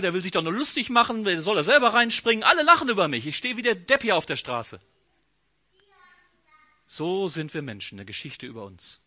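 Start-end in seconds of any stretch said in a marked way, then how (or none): 0.0-4.8 a hint of Naaman grumbling angrily; mock ranting. Naaman scolding about Israel's dirty rivers, mild mock rant. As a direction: grouse like an offended nobleman. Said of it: "schimpft er weiter".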